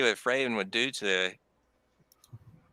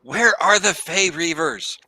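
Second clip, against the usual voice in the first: character voice; 6 semitones higher, 6 dB louder than usual. Retold or imitated. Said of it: "He's like".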